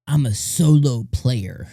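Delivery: slow, mocking hero quote; mock loner hero. Akira refusing to team up, mock loner hero. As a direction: imitate a self-styled lone wolf. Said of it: "But he's like".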